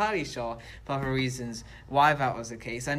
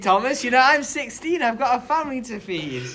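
mock pleading; 10 semitones higher, 8 dB louder than usual. Mock plea to keep his job.

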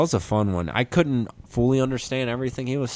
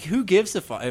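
mocking the ladies; 10 semitones higher than usual. Quoting the angry ladies.

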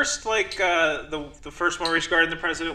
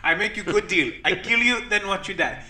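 put-on Indian accent; 4 semitones higher than usual. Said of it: "an Indian accent this time".

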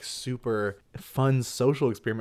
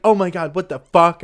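high, loud mock alarm; mock shock; 6 semitones higher, 10 dB louder than usual. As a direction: fake a horrified scream. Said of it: "You pretend like you're like".

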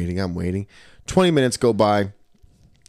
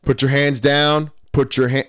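lightly acted cop command, raised pitch; police officer ordering; 5 semitones higher, 3 dB louder than usual. Police ordering him on the boardwalk, lightly acted command.

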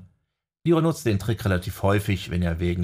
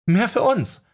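higher, louder, laughing delight; 13 semitones higher, 5 dB louder than usual. A narrator's reading. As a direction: toss it off with a laugh. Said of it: "lachte die Nekromantin".

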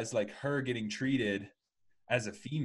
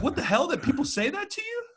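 much higher, laughing through the quote; laughing disbelief; 5 dB louder than usual. Retold or imitated. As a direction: let the laugh break into the question. Mocking disbelief at sexist remarks.

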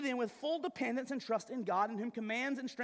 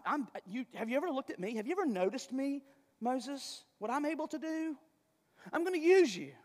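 God reassuring. Retold or imitated. Preacher voices God reassuring Moses.

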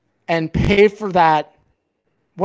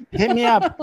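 high disbelieving repeat; can you believe it; incredulous echo; 6 semitones higher than usual. Real, not acted. Echoing an ex's nerve in high disbelief.

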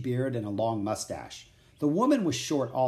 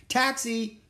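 put-on boy hails a passing carriage, raised voice; yelled; 10 semitones higher than usual. A narrator's reading. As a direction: call the cab out down the street. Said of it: "yelled Jack".

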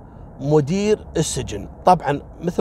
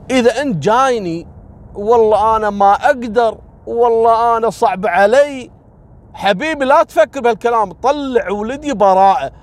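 insistent pleading; 6 semitones higher, 4 dB louder than usual. Retold or imitated. Rich father insists on acquittal.

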